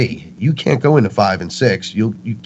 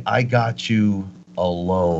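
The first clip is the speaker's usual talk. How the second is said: slow, softer, drawn-out menace; menacing entity; 6 dB quieter, slower than usual. Retold or imitated. Dark entity corners someone in the basement, slow hushed menace. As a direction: creep through each word slowly, quietly.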